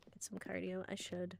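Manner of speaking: soft whispered aside; whispering. Real, not acted. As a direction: whisper it to yourself. Whispered self-talk.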